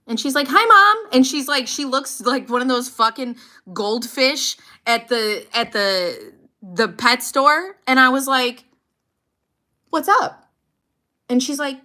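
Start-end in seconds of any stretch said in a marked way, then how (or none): 0.5-1.1 put-on high, loud chirpy little-girl voice; little daughter. Mom imitating her daughter's bright high greeting. 9.9-10.5 careful question. Retold or imitated. Mother's careful question to daughter.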